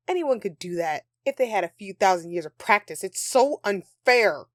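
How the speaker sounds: a sulky elf blowing up over the unfairness; rising rant. Acted. Elf rant escalating about Christmas.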